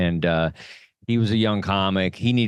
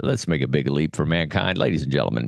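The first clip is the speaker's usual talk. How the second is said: pilot voice; 4 semitones lower than usual. Pretend. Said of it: "in that pilot voice is very funny".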